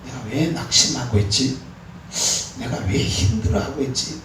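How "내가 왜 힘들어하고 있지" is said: usual speaking voice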